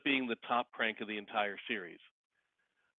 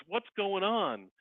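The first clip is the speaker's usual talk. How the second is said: dazed wife; 8 semitones higher, much slower than usual. Retold or imitated. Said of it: "walks out kinda dazed and goes".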